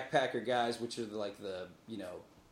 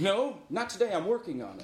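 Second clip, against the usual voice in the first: laughing; 7 semitones higher, 3 dB louder than usual. Pretend. Acted reply, laughing.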